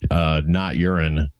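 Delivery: talking around a sip; while sipping a drink. Real, not acted. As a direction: mouth near the cup, sipping. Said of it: "I'm gonna take a sip of this".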